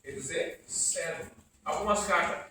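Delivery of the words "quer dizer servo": hushed aside. Shown as a demonstration. Preacher hushes the key word.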